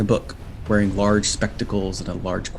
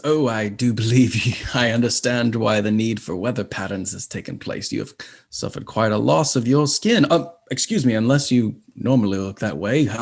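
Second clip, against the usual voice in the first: flustered imp professor. Acted. Imp professor introducing himself to travellers, flustered and fussy. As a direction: trip over the words like a nervous bureaucrat. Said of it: "devilish imp".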